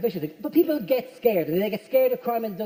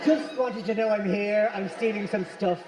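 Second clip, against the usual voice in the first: polite burglar; 3 semitones lower than usual. Pretend. Burglar politely announcing himself to the householder, mock courteous. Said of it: "How polite are the burglars".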